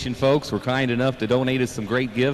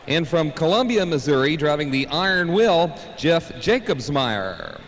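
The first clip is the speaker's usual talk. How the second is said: tractor pull announcer; 4 semitones higher, slower than usual. Acted. Co-announcer reading driver intros.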